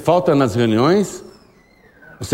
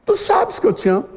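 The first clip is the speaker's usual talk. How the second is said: earnest reply repeated; 10 semitones higher than usual. Acted. Echoing Peter, higher.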